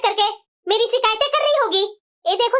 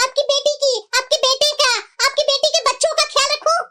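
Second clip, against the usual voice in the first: higher, sharp, resentful scolding; angry retort; 4 semitones higher than usual. Acted. Daughter-in-law snaps at her mother-in-law about the daughter's visit, angry. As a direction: let the grievance pour out higher and harder.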